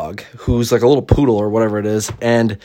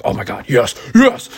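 excited yes. Retold or imitated. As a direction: gush over a great line. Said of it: "I was like".

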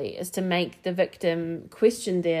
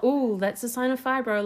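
lightly voiced mum, higher; mild mock mum, pitched up; mum's voice; 5 semitones higher than usual. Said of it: "anytime something was wrong".

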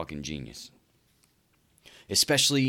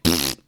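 low, short lip-puff scoff; dismissive pfft; 5 semitones lower, 7 dB louder than usual. Retold or imitated. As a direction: blow air through the lips in a scoff. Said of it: "I would comment".

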